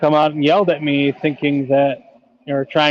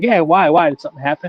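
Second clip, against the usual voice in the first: put-on anxious, caring, concerned, worried tone. Retelling a chat with a dog owner, imitating his concerned reply. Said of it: "Like very concerned".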